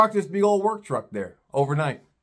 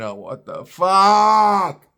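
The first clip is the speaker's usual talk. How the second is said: inner disbelief; 3 dB louder, much slower than usual. Retold or imitated. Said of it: "I'm thinking".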